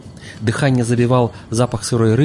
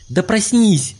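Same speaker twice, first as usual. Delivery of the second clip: high furious yell; fierce shout; 9 semitones higher, slower than usual. A narrator's reading. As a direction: bark him awake. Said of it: "крикнул Олег люто".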